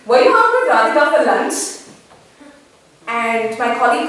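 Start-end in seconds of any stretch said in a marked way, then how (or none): 0.0-1.6 bright, casual hey, then a quick teasing question; breezy casual greeting. Retold or imitated. To a colleague back at work: a breezy, chatty greeting. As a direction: greet a colleague far too cheerily. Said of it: "the tone of voice is highly inappropriate".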